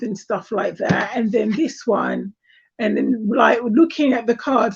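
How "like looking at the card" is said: hoarse, breaking voice on the words; cracking voice. Real, not acted. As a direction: voice cracking and going funny. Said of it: "my voice is going all funny again".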